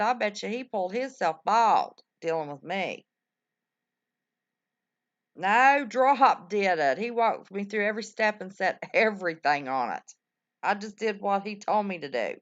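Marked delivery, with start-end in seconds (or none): 5.4-7.0 emphatic correction. Real, not acted.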